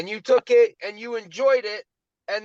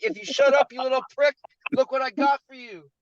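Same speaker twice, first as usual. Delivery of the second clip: teasing parent; 5 semitones higher than usual. Retold or imitated. Parent voiced in story.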